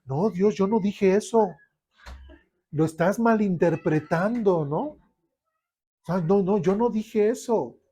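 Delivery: mock indignant protest; defensive denial. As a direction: deny it like you've been caught. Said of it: "podría decir".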